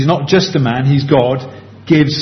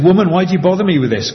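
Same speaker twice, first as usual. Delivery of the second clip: curt, brisk rebuke, a touch quicker; abrupt; 4 semitones higher, faster than usual. Retold or imitated. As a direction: brush her off sharply but lightly. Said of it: "Quite abrupt with his mother".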